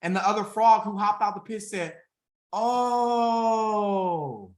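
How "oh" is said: high cried-out oh; surprised cry. Retold or imitated. Frog answers his friends with a high surprised cry. Frog's joyful reply.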